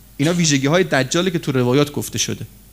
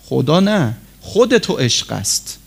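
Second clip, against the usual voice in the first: ordinary talk, nothing marked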